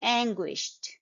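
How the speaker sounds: "anguished" ending in t, ANG-gwisht; final t sound. Shown as a demonstration. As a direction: finish "anguished" on a t, not a d. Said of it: "It's ending with".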